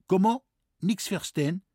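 high, puzzled French voice; baffled foreigner asking back; confused Frenchman. A narrator's reading. (verwirrter Franzose, hoch)

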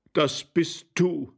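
high, drawn-out recognition; astonished call. A narrator's reading. Husband discovers his wife on the stairs, astonished. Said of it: "rief der Herr Gemahl".

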